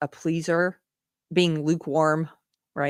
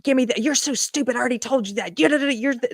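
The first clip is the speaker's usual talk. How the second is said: higher, mocking nasty mother berating a child; verbally abusing; 7 semitones higher, faster than usual. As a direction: snap insults at the kid like the abusive mom. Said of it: "I'm talking about verbally abusing".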